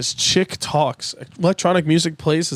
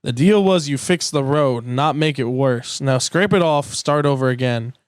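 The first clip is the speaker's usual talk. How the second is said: Doc voice. Acted. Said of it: "Doc Hudson".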